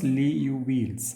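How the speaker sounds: Liouville's said as "lyoo-veels"; pronounced Liouville's. Shown as a demonstration. Lecturer showing students how Liouville's is pronounced, "lee-yoo-veels". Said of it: "It is pronounced as".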